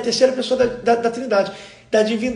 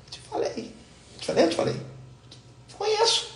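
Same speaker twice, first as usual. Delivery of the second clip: hushed aside, breathy whisper; 10 semitones higher, 9 dB quieter than usual. Retold or imitated. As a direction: whisper it so the caller can't hear. Aside to wife during call.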